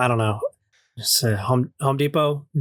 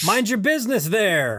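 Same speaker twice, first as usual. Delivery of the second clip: mock Canadian; 5 semitones higher than usual. Mock Canadian neighbor retort.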